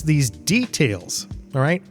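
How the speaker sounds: ordinary delivery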